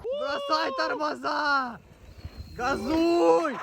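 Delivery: slow strained yell, pushing him on; urgent yelling. Real, not acted. Yelling at a racer.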